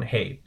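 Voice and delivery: "hey" held steady, no rise or fall; first-tone demo. Shown as a demonstration. Teacher models the English loan word, first-tone demo. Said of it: "in the first tone".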